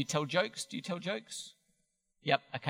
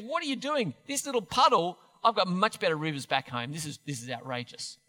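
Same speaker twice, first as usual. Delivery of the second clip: mock fury. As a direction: imitate an affronted general. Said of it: "Naaman's in fury because he goes".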